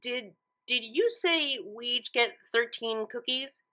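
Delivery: slow, stammering disbelief; can't believe what she heard; stunned disbelief. Acted. Twilight checks with Pinkie in slow stunned disbelief. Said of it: "not sure if she heard Pinkie right".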